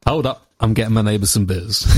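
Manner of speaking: mock Southern US pilot announcement. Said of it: "I'd love to hear a southern pilot".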